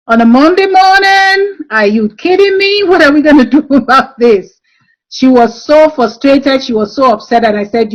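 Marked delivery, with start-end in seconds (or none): 0.1-4.6 higher, incredulous are-you-kidding-me; exasperated disbelief. Retold or imitated. Head teacher retelling her reaction to the classroom photos, mock disbelief. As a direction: throw up your hands at a Monday mess.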